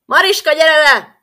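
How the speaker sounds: loud, high call down to the tower. Acted. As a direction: yell up to the tower for her. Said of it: "king calls daughter in Hungarian".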